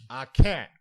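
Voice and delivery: mock whine. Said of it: "the teacher's like".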